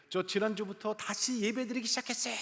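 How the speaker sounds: high-pitched, gleeful bragging; proud boasting. Retold or imitated. Gas station man telling the preacher he's back at church, boastful. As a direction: imitate a man showing off his news. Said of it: "그리고 막 잘난 척을 해요".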